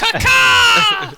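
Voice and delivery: loud, very high squawking cry; shouted bird call. Pretend. Player butting into the perception checks, shouted bird call.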